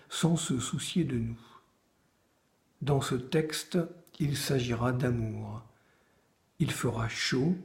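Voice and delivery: measured recital with pauses between phrases; poem read to listeners; poetry reading. Acted. Reads own poems aloud after introduction.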